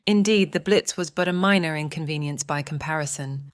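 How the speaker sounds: understated, dry sarcastic remark; a dry ironic understatement; dry sarcasm. Acted. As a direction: play it deadpan and mocking. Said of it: "I'm detecting sarcasm".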